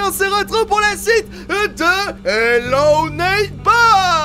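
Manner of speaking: high, drawn-out, booming greeting to fans; high-energy show-opening voice; hyped YouTuber intro. Acted. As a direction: belt out the channel opener, stretching key words.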